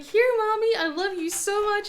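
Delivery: put-on high, sweet child voice; kids sweet-talking. Kids hugging their sick mom, high sweet child voice. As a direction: coo it like a little kid buttering up mom. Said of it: "they're like".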